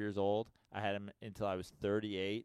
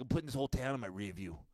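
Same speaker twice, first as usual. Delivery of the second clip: quick movie tough-guy impression; lightly put-on fake Boston voice; Jeremy Renner; faster than usual. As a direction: toss it off like a Boston movie crook. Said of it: "Sound like Jeremy Renner in the town".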